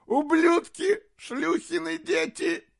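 shrieking, very high curses; furious curse. Acted. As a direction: spit the curses at the traitors. Jester curses the traitors. (яростное проклятие)

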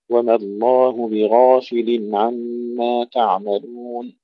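slow recitation, بغافل with thick gh and open a; heavy ghayn, open alif. Shown as a demonstration. Teacher modelling the whole phrase, slow, open-voweled بغافل. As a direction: stretch the verse, keep بغافل open. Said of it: "المحافظة على فتح الألف".

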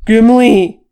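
shouted. A narrator's reading. Thorin calling for his buried kinsman, full shout. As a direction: shout "Gimli" to carry across the slope. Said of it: "Thorin shouted".

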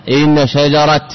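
slow إن شجرة, ending shajarat with a clear t; pausal t ending. Shown as a demonstration. Teacher demonstrates to students, slowly, شجرة ending in t. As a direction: say إن شجرة slowly, landing on a final t. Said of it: "يقف عليها بالتاء".

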